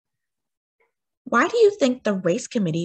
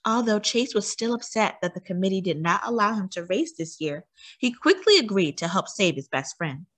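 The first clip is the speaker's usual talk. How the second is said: lively storybook reading, bright and expressive; reading to children. A narrator's reading. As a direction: read it like a bedtime story to a little one. Reads a picture book aloud.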